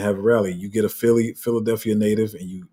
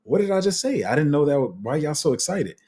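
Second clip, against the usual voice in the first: put-on confused baby; 6 semitones higher than usual. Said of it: "the baby's like".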